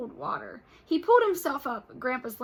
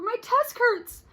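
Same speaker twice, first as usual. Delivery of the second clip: high, slow hurt whine; higher, louder, slow pained whine; whiny complaint; 12 semitones higher, 10 dB louder, much slower than usual. Acted. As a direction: whimper it like a hurting kid.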